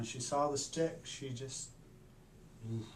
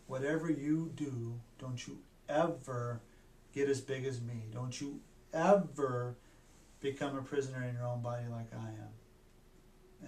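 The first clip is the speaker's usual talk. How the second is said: grave warning. Retold or imitated. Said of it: "she said".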